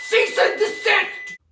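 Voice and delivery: slow, high mock legal shout. Ordering the recipe to stop, a slow high mock shout. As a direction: bellow it like a stern official.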